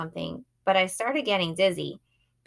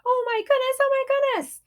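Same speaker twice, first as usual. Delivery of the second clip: very high, loud gushing; excited squeal; 4 dB louder than usual. A narrator's reading. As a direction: squeal with joy while hugging. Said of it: "Mom was screaming with excitement".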